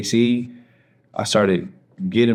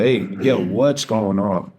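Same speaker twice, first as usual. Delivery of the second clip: slow, drawn-out concerned question; concerned check-in; slower than usual. Retold or imitated. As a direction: retell her gently pressing him for an answer. Girlfriend hears him crying, asks again.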